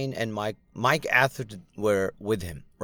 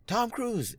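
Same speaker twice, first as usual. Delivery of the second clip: excited fan recognition; 11 semitones higher, 4 dB quieter than usual. Retold or imitated. Fans spotting masked star.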